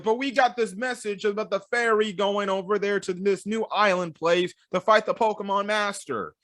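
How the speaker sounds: lightly voiced whiny trainer; a hint of a complaining kid; protesting trainers. Trainers protesting to the officers, lightly voiced. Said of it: "trainers like".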